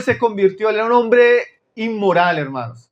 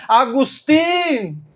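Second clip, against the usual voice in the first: long-drawn higher-pitched call, not truly shouted; mock calling out; 4 semitones higher, much slower than usual. Woman calls after Agustín who keeps walking, mock calling out. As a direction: imitate a woman hailing a man who ignores her. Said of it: "Ella comenzó a gritarle".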